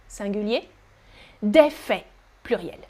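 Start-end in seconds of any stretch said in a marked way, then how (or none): 1.4-2.1 no T or S in FAITS; FAITS with silent ending. Shown as a demonstration. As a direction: say FAITS as "fay". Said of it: "do not pronounce the T".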